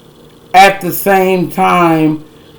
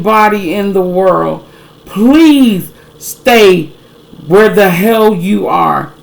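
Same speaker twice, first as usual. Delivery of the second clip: exasperated pleading. Real, not acted. Exasperated plea to woman.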